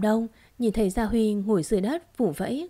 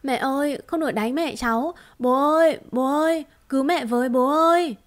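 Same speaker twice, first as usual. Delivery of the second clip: put-on high, loud sobbing boy calling his father; a terrified little boy pleading for help; tiếng trẻ con khóc thét gọi bố; crying child; 5 semitones higher, 4 dB louder than usual. A narrator's reading. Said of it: "vẫn khóc thảm thiết".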